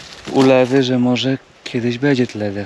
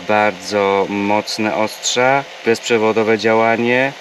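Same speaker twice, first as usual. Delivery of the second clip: even, measured product pitch; sponsor ad read. Real, not acted. Vlogger recommending a travel blender to viewers, ad read.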